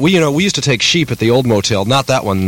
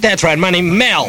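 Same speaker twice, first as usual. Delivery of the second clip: put-on high-pitched caricatured African American accent; mock African American dialect, pitched up; 8 semitones higher than usual. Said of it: "You talking the same way I am".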